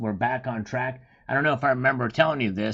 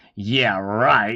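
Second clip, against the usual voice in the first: loud, dry, mocking sarcasm; 6 dB louder than usual. Showing how a written reply first seemed to sound: sarcastic. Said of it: "you were being sarcastic, like".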